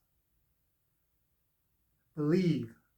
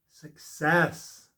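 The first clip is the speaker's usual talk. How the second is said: firm declaration; 4 dB louder than usual. Acted. Tarot reader declaring the card to the viewer, firm and louder. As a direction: say it out, louder and sure. Repeats card name, second take.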